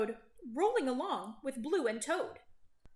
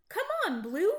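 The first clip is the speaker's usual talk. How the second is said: cheering; 7 semitones higher, 4 dB louder, faster than usual. A narrator's reading. Animals cheering the race.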